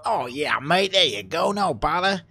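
lightly voiced helpful, gullible guard; cheerfully over-obliging pretend guard; mock obliging guard. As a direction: play the guard happily waving a robber through. Acts out guard gullibly helping.

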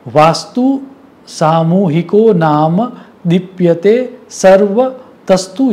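slow, measured quoting of scripture; recited Sanskrit aphorism, spaced out; Sanskrit verse recitation. Acted. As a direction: recite the shloka deliberately, word by word.

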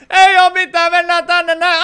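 high, loud flustered rush; startled hurry. Real, not acted. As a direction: cover it up fast, flustered. Something embarrassing appears on screen.

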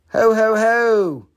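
high, loud, slow mock Santa ho ho ho; host hamming up a Santa laugh for Christmas. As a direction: belt it out like a jolly Santa. Mentions Christmas, does Santa laugh.

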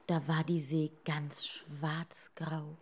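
unvoiced narration, slowing down; eerie whispered telling; ominous whisper. A narrator's reading. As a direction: whisper it like a dark omen. Narrator whispers dark sea.

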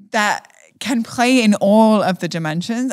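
the word "play" lifted and leaned on; stress on play. Real, not acted. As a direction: give "play" a little extra weight, lightly. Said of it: "I put emphasis on the word play".

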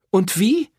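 high, loud scornful challenge; woman mocking the priest's answer; bitter retort. A narrator's reading. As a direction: throw it back at him.

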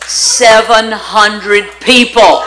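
slow, amazed, bursting with delighted laughter; excited laughing exclaim. Real, not acted. Preacher to her congregation, recalling the crowd, loud laughing amazement. Preacher marvels at huge altar response.

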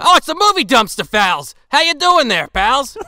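cheery Australian wildlife host hamming it up; Australian accent hello to the pals; Steve Irwin Australian accent. Pretend. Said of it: "I'm losing the accent already".

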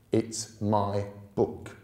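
slow, stubborn insistence; obstinate. Acted. Stubborn boy refusing to share his book. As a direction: dig your heels in, slowly. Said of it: "said Thackeray Porringer obstinately".

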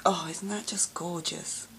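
ordinary delivery

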